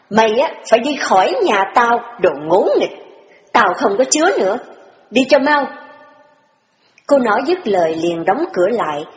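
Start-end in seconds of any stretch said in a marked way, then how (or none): 0.1-5.6 restrained anger. Acted. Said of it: "cố dằn lòng giận mà nói".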